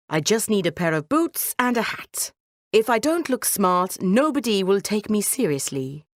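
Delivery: lightly voiced cat, matter-of-fact; clever cat. Cat asking his master for boots, self-assured. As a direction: explain the plan with calm confidence.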